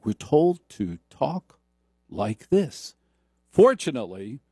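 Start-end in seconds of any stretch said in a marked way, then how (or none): 0.0-2.9 NPR voice. Retold or imitated. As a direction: stretch it out like a public radio host.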